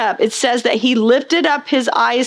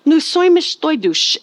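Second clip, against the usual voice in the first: pitched-up Spanish-sounding gibberish from a startled worker; mock foreign babble; 5 semitones higher than usual. Babel worker suddenly answering his mate in a strange tongue, mock foreign babble. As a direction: blurt out a strange tongue, half-joking. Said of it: "I'd speak in these different languages".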